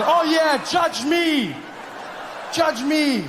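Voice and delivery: high, mock-outraged defiance; indignant shouting. Comic defending himself to a disgusted audience, high indignant shouting. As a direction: snap back at the judging crowd.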